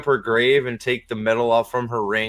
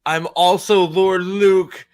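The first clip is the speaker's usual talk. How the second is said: increasingly high boastful proclamation; mock heroine's self-introduction, rising in pitch; mock grand Faile; 4 semitones higher, 4 dB louder than usual. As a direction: announce titles with hammy pride, building higher. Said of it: "He's gonna be like".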